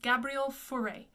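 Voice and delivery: Gabriel Fauré with English r's; English-style "GAY-bree-ul for-AY" for Gabriel Fauré; anglicized pronunciation. Shown as a demonstration. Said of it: "with that little R in the back".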